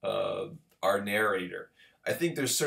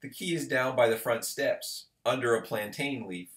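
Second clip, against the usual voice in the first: gentle voice; 2 semitones higher than usual. Acted. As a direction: coax it gently through a door. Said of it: "in the gentlest voice".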